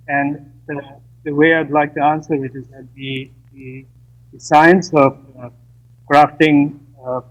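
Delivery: call dropping out. Real, not acted. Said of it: "we're having difficulties".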